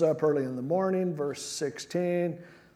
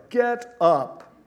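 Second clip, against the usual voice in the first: sharp, loud and higher as God's rebuke; stern command; 7 semitones higher, 6 dB louder than usual. Acted. The Lord ordering Joshua off the ground, loud and stern. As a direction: bark the order down at him.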